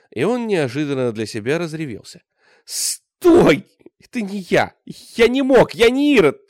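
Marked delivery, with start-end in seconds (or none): 2.7-6.4 very high, loud, breaking into a squeal; voice cracking into a shriek. A narrator's reading. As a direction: shriek in desperation. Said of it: "Голос Богдана сорвался на визг". (голос срывается на визг, со слезами)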